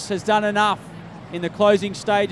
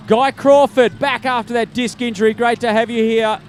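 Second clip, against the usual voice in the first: hailing a finisher; 2 semitones higher, 4 dB louder than usual. Real, not acted. Announcer hails finisher over PA.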